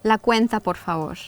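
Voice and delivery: La cuenta, por favor said natively; Spanish pronunciation. Shown as a demonstration. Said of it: "May I have the bill?".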